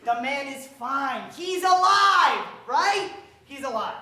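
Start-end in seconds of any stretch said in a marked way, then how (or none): 3.4-4.0 quiet laugh. Acted. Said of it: "repeated quietly with a laugh".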